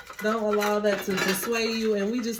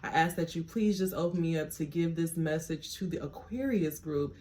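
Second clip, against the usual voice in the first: prayer; 2 semitones lower, 5 dB quieter than usual. Acted. Tarot reader praying to God before the reading, softly. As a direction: pray quietly, opening yourself up.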